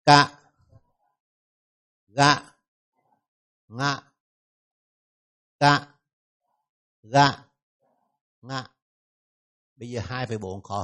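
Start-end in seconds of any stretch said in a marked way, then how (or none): 0.0-8.7 "Cả, gạ, ngạ" as short separate syllables, repeated in a set rhythm; đọc mẫu phụ âm. Shown as a demonstration. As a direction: drill "Cả, gạ, ngạ" with a pause after each syllable. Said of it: "Đọc lại này". (đọc lặp từng âm "Cả, gạ, ngạ", ngắn và rời)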